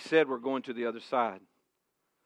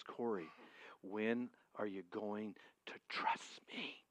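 whisper; 2 semitones lower, 12 dB quieter, slower than usual. Retold or imitated. God's still small voice speaks.

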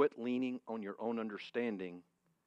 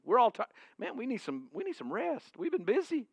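much higher, loud, teasing Jesus; playful Jesus voice; 9 dB louder than usual. Retold or imitated. Pastor voicing Jesus teasing his frightened disciples, high and playful. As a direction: tease the scared disciples as Jesus. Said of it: "Jesus said".

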